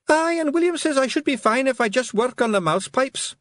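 high, bright little Scots pixie; a tiny Scots warrior reporting; Scottish pixie voice. A narrator's reading.

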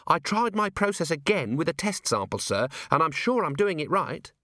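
a keen junior officer reporting up; young dwarf Cheery. A narrator's reading. Cheery nervously reporting her test to Vimes, eager.

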